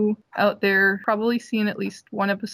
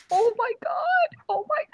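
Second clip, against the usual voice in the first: going crazy. Retold or imitated. Cosplayer retelling Voltaire's ear prank, going crazy. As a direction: stretch out a high-pitched mock freak-out. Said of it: "I go crazy".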